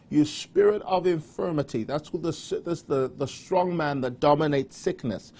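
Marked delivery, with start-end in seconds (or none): 0.1-1.8 firm rebuke of a spirit; commanding prayer. Shown as a demonstration. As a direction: order the sickness out with authority. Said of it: "just say".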